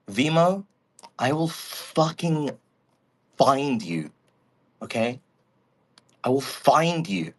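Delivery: a hint of a slow, menacing threat; mock threat. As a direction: promise revenge slowly, half-joking. Threatens chatter Vimo.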